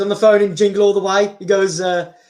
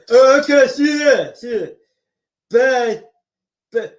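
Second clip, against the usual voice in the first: Stallone impression; 2 semitones higher than usual. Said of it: "Sly Stallone having a conversation".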